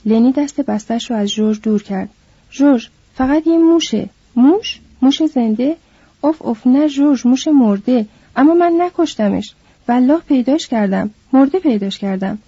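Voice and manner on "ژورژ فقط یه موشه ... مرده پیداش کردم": put-on higher, childlike protesting voice; a simple man insisting he is innocent; Lenny protests to George about the mouse, higher pitch; Lenny defensive.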